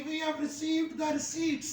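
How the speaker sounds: receipts said slowly, without the p; slow model sentence. Shown as a demonstration. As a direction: spell out every word slowly, like a teacher. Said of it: "आप ये नहीं कहेंगे". (धीरे धीरे, हर शब्द साफ़)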